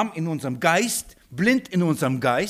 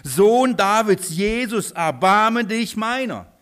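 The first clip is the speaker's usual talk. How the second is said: slow, loud cry for mercy; a blind beggar crying out over the crowd; shouting plea; 4 semitones higher, 5 dB louder, slower than usual. Acted. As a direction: call out to Jesus, drawn out and loud. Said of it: "fing er an zu schreien".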